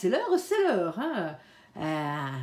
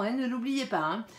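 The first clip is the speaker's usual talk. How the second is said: ordinary talk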